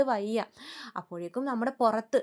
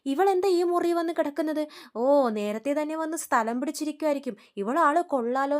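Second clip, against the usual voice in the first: raised, louder indignant voice; sister-in-law annoyed at finding her in their room, angry and loud; angry retort; 4 semitones higher, 4 dB louder than usual. Retold or imitated. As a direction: snap at the sister-in-law with contempt. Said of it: "ശ്രുതിക്കും ദേഷ്യം വരുന്നുണ്ട്".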